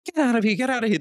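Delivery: imitating religious people chasing him away; angry brush-off. Religious people yelling at Bill Maher, mock angry shout. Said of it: "And they'll be like".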